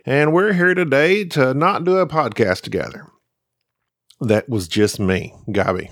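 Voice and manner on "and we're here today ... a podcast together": Jerry impression. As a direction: lightly mimic her co-host, playing the big star. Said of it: "That was my impression of Jerry".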